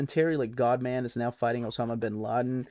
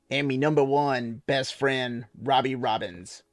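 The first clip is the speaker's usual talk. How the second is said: slow, lightly voiced sailor man with less twang; toned-down Popeye. Reading the dedication again as Popeye, twang toned back. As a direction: ease off the twang, still Popeye. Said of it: "Tone it back some".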